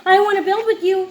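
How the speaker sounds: put-on high, fast little girl pleading; little sister voice. Little sister begging Felix to build, high and eager. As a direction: chirp it like an eager small kid. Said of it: "she said".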